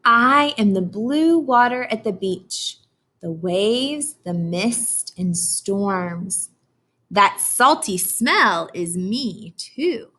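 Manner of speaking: put-on slow, expressive read-aloud for children; storybook reading. Teacher reading Atlantic to her class, slow storybook voice. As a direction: read it slowly like a picture book to kids.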